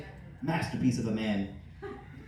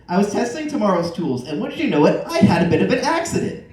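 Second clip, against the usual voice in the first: eager; 4 semitones higher, 7 dB louder than usual. Acted. Al's staged plea to Tim.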